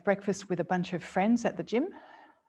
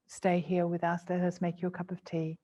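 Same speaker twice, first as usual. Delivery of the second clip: soft, gentle offer; 3 dB quieter than usual. Shown as a demonstration. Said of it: "your soft, gentle voice".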